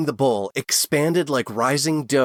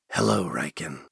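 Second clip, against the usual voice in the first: gentle; 6 semitones lower than usual. A narrator's reading. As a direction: greet the baby gently. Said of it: "Osman said in a gentle voice".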